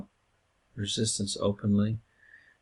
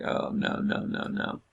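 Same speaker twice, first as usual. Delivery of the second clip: whispered oh no no no; unvoiced groan of realising the prep time is gone; whispered dread. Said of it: "And you're like".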